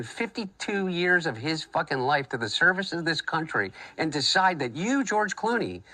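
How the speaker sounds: heated rant at an absent celebrity; angry rant. Acted. Angry rant aimed at Clooney.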